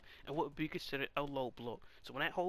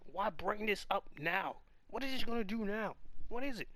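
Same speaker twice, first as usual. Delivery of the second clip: exasperated; 4 semitones higher than usual. Real, not acted. Repeated frustrated question.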